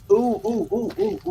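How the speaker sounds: delighted opening a present. Real, not acted. Opening a gift in the mail.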